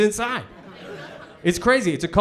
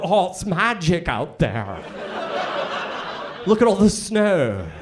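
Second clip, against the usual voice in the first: slow, lightly voiced wonder; awed child; slower than usual. California kids on first day of snow, slow mock wonder. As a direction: draw it out like a marvelling kid.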